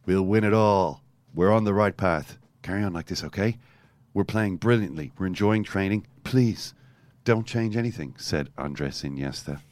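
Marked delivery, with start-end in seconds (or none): 0.0-8.2 calm reassurance. Retold or imitated. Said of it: "the voice spoke calmly".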